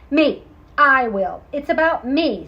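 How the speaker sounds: loud eager outburst; loud eager little cat. Acted. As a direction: jump in eagerly. Pearl eagerly volunteers.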